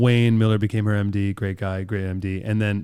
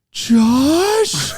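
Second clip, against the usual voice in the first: shrieked name, much higher and louder; starstruck shriek; 5 dB louder than usual. Retold or imitated. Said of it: "And she goes".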